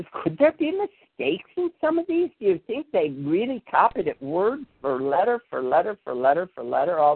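a hint of a worried young monk asking; young monk's question. Young monk asks head monk.

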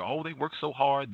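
high mocking praise; sarcastic quote. Mocking white women's claims, high and sarcastic. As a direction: sneer it in a high voice.

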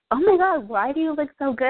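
high, delighted gasp of surprise; amazed husband. Retold or imitated. Husband admiring his wife, mock amazed and high. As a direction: gush like a stunned husband. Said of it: "my husband would be like".

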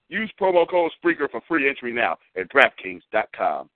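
upbeat hyped-up sponsor read; radio ad read. Acted. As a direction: sell it like a radio commercial. Host reads sponsor ad.

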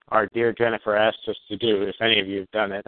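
sarcastic. Real, not acted. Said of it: "I'm being sarcastic".

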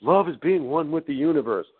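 gently parodied spiritual sincerity; imitated answerers. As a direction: mimic someone giving a dreamy stock answer. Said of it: "I got all different types of answers".

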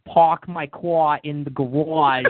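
slow, hammed-up Boston accent; exaggerated Boston drawl, slowed down; mock Boston accent. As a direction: drag it out like a cartoon Boston local. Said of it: "fake Boston accent".

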